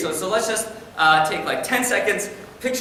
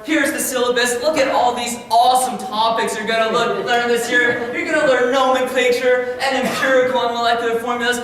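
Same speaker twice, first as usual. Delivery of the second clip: high, bright-sounding pitch pushed up as a keen new teacher; overeager teacher; 6 semitones higher, 3 dB louder than usual. Retold or imitated. New teacher greeting class, overeager and high. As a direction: hype the syllabus like an overeager rookie. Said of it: "I was like".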